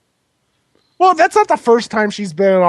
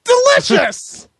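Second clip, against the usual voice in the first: slow monster voice; 13 semitones higher, much slower than usual. Pretend. Voicing the monsters eating.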